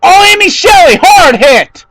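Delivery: high, loud shocked cry; alarmed shout. Real, not acted. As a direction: react to a sudden crash. Sudden crash live.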